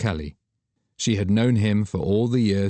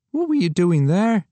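higher, louder urgent question; Douglas alarmed; 12 semitones higher, 5 dB louder than usual. Acted. Friend sensing danger, higher urgent question. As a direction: ask urgently.

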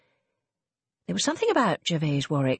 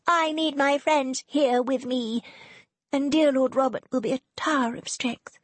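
put-on much higher, commanding young lady; imperious; 8 semitones higher than usual. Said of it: "Serena said imperiously".

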